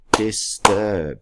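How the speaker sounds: "Disturb" as dis... turb; split into syllables. Shown as a demonstration. Teacher finds the syllable break for pupils, "Disturb" pulled apart. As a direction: say "Disturb" in two separate beats. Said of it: "It's two syllables".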